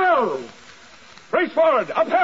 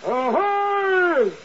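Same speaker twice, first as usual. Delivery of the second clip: hailing. Acted. Ships hailing each other at sea.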